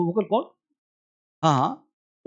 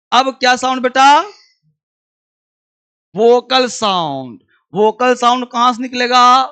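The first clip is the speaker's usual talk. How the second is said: loud question; 3 semitones higher, 4 dB louder than usual. Real, not acted. Teacher quizzing class loudly.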